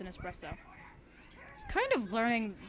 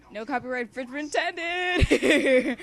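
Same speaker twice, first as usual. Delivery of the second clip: much louder, hammed-up announcement; mock disclaimer shout; 4 semitones higher, 10 dB louder than usual. Reader jokes to listeners, shouting a mock disclaimer. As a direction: boom it out like a legal warning.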